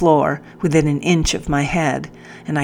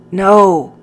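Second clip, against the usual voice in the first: sharp high cry of refusal; defiant shout; 4 semitones higher, 7 dB louder than usual. Acted. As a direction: throw out a loud desperate No. Narrator voicing girl's refusal.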